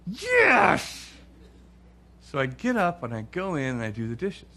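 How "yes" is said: high squeaky yes; emphatic yes. Retold or imitated. Wife confirming he must handle it, high emphatic yes. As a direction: pop it out high and sure.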